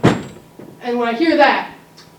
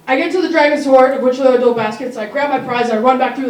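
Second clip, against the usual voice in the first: louder, rushing build to the reveal; excited storytelling; 2 semitones higher, 5 dB louder than usual. Real, not acted. Kid heist tale told with rising excitement. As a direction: hype up the treasure moment. Dramatic heist narration climax.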